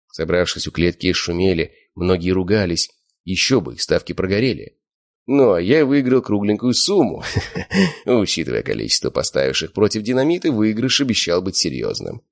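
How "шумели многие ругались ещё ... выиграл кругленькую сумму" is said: ordinary delivery, nothing marked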